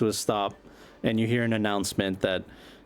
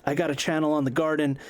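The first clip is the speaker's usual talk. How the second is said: high, fast, pushy patter; eager vlogger; 5 semitones higher than usual. Acted. Buzz cold-calling Kerry, high and fast. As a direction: sell yourself to a celebrity in one breath.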